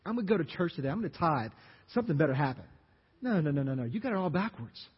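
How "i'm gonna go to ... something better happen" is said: whiny pity party. Retold or imitated. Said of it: "we have this little pity party like".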